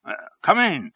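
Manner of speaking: high-pitched welcoming call. A narrator's reading. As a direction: call him in from the doorway. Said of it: "he called out".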